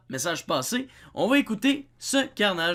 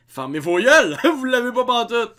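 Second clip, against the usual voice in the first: mock yell; 2 semitones higher, 7 dB louder than usual. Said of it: "ce soit lui qui dise aux Français".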